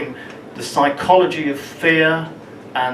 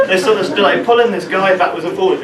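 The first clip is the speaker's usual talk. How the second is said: laughing; 5 semitones higher, 5 dB louder, faster than usual. Real, not acted. Laughing while telling the chase.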